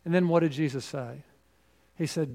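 normal talking voice

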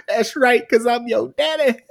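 high, loud mock delivery, lightly voiced; repeating the punchline with a grin; repeated daddy punchline. Repeating the best line for cohosts, lightly voiced mock swagger. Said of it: "laughed so hard".

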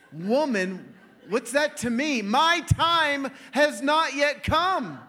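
a hint of Jesus' stern reply, slowing down; drawn-out mild rebuke; Jesus answering his mother, slowly and lightly stern. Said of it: "He's like".

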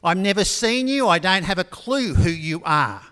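mock exasperation at a stranger; exasperated professor. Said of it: "And the professor says".

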